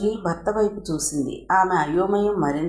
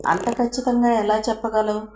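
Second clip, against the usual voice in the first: irritated, angry question; 4 semitones higher than usual. Acted. Ravi demanding proof from the smuggler, irritated and angry. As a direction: fire the question back in irritation. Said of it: "విసుగు, కోపం ధ్వనిస్తున్న గొంతుతో".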